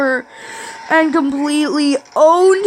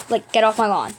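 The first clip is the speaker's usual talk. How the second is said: lower, toned-down insistence; mock serious; 5 semitones lower, faster than usual. Gamer telling pigs to leave his lawn, mock serious. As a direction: drop the yell and say it like you mean it. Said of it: "Like, I'm serious".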